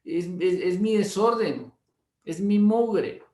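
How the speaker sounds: a mildly imitated embarrassed wife insisting; flustered protest.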